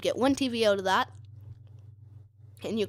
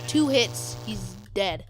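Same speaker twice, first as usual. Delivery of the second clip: excited; slower than usual. Real, not acted. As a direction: punch it out excitedly. Excited about killing sheep.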